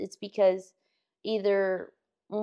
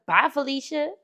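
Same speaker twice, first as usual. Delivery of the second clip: put-on sassy kid brush-off; 6 semitones higher than usual. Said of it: "he goes".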